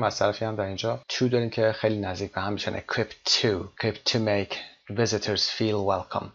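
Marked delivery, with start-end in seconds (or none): 2.8-6.3 "Equipped to" with the t run into "to"; slow model of "Equipped to make visitors feel welcome" with a t ending; careful teacher's demo of the linked t; t sound linking. Shown as a demonstration.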